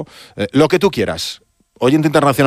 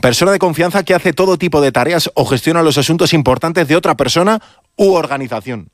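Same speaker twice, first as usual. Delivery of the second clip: leyendo una definición; 6 semitones higher than usual. Real, not acted. Lee en voz alta una definición.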